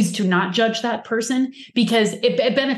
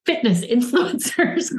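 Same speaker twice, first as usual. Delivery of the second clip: fitness influencers said slowly with a laugh, in mock air quotes; 3 semitones higher, slower than usual. Real, not acted. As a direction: lean on fitness influencers with an ironic chuckle. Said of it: "I'm using air quotes".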